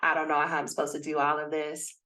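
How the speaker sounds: low, lightly voiced inner skeptic; doubting inner voice. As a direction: grumble like a brain making excuses. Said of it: "you're gonna hear your brain tell you".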